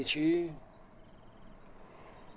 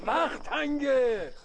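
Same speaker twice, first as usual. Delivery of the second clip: grave warning; 12 semitones higher, 5 dB louder, much slower than usual. Acted. Old man warns of coming war.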